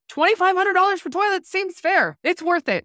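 breezy high voice brushing off a huge toilet bill; mock breezy. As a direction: say it lightly like it's nothing. Justifying toilet cost to dad.

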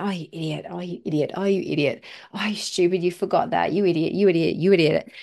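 muttered self-scolding building firmer; acted-out cursing at yourself, rapid repeats; self-berating. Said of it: "berating yourself and cursing yourself".

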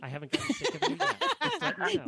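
high, laughing tease, sincere only in jest; mock sincere teasing. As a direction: tease her with a grin you can hear. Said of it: "That sounded so sincere".

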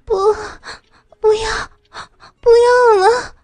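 high, breathless cries breaking into protests; crying out. A narrator's reading. Woman crying out to her lover, high and overwhelmed. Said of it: "我只能够大声地叫着".

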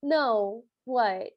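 imitating a friend with little interest; mock-uninterested reply; unenthusiastic. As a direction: answer with minimal enthusiasm. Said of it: "with not a lot of enthusiasm".

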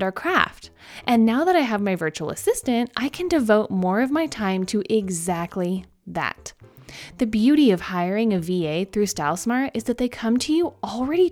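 upbeat sponsor ad read. Acted. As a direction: sell it like a podcast ad. Reads a sponsor ad.

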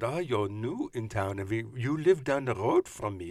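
lightly put-on German accent, slowed at the start; a hint of an old German neighbour inviting them to tea; old German woman accent. Old German woman inviting new neighbours to tea, light German accent. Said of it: "she was an old German woman".

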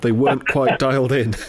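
tickled by the understatement; amused laughing repeat. Real, not acted. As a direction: quote it back through a laugh.

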